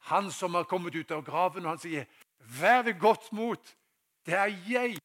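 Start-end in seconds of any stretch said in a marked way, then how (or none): 2.4-5.0 loud, high, slow call; proclaimed encouragement. Acted. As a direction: call it out over a storm, stretching each word. Quotes Jesus calling in storm. (høyt, oppmuntrende rop)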